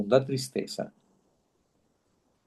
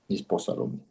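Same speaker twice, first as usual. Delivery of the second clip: whispered echo; 5 semitones lower, 7 dB quieter, faster than usual. Real, not acted. Whispered echo of previous line.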